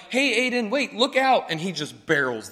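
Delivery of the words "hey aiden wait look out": raised, higher warning call across the sidewalk. Retold or imitated. Teacher warning Aiden before he collides, raised call. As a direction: call out to stop him. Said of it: "I'm like".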